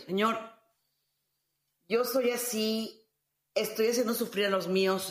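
low, weary plea to God; lightly acted tired prayer; pleading prayer. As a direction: pray it humbly as if at the end of your rope.

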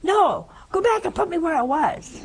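high plea breaking into laughter; laughing plea. Retold or imitated. Patient telling the doctor to send him back, laughing. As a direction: demand it while laughing.

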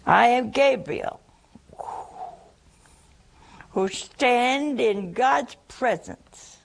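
slow solemn angel; stately Gabriel. Retold or imitated. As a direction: proclaim slowly like an archangel. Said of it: "that's how he said it".

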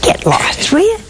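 a hushed mock "get lost"; whispered brush-off. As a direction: toss it off under the breath. Him retelling his own refusal.

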